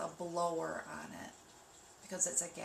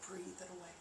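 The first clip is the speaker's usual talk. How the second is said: soft catchphrase; 10 dB quieter than usual. Retold or imitated. Reminding viewers of her saying, said softly. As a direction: say it gently like a mantra. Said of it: "Remember how I say".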